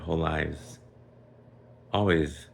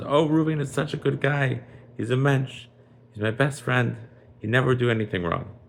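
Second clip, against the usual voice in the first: higher, louder, earnest character plea; fervent vouching; 8 semitones higher, 5 dB louder than usual. Acted. Shimon vouches to the king for his best friend, fervently. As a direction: gush in your friend's defense.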